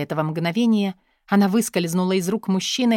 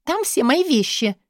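outburst; 8 semitones higher than usual. A narrator's reading. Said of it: "психанула Катя".

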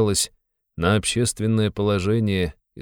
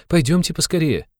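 high, louder urgent plea; 11 semitones higher, 4 dB louder than usual. Acted. Sonya urges Raskolnikov to go at once, high and urgent. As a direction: hurry him out the door. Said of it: "вскинулась Соня".

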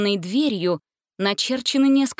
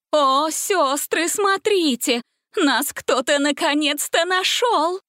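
high, slow, ghostly delighted voice; a witch rejoicing at being found; joyful witch; 7 semitones higher, 3 dB louder, slower than usual. A narrator's reading. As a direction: Bastinda thrilled someone found them. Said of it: "радостно воскликнула Бастинда".

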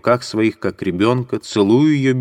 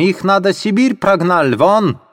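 wailing yell; 11 semitones higher, 3 dB louder than usual. Acted. Landlady screaming for police at Sonya, accented wail. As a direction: howl for the police.

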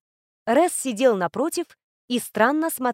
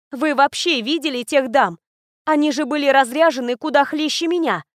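indignant outburst; 4 semitones higher, 4 dB louder than usual. Acted. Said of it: "возмущённо выдохнула я".

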